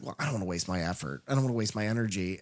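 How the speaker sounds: low, quick, muttered grumble under the breath; grumbling Thing. Acted. The Thing, inwardly weighing its effort, grumbles low and quick. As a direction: mutter it fast and low like a sulking monster.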